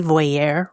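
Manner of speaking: "voyeur" said the fancy French-sounding way; "voyeur" pronounced vwah-YAIR or voy-AIR, affectedly fancy; super fancy pronunciation. Real, not acted. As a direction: give "voyeur" an elegant "-yair" ending. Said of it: "I try to sound super fancy".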